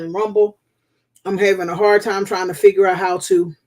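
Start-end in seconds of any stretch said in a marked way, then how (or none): 1.2-3.5 chewing while talking; mouth full. Real, not acted. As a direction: talk through a mouthful of food. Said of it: "pardon me if I'm chewing".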